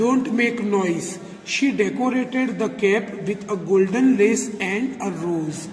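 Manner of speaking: slow, deliberate word-by-word read-aloud; measured teacher reading an English story. A narrator's reading. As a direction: read each phrase slowly with pauses for young learners. Reads English story text to learners.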